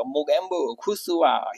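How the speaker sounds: slow, lightly voiced villain line; a hint of the gloating Mogambo. Teacher quoting Mogambo for students, lightly voiced. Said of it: "फिर वो repeat हो जाएगा".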